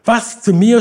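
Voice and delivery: high, loud startled cry; aufgeschrien. A narrator's reading. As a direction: cry out in disbelief, pitched well up. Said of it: "schrie sie". (hoher, lauter Aufschrei)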